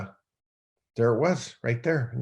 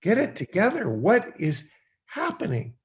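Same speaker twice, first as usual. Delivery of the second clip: higher, louder self-scolding yell; man yelling at himself in his parked truck; 8 semitones higher, 3 dB louder than usual. Retold or imitated. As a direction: shout at yourself in the truck to snap out of it. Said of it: "I started yelling at myself".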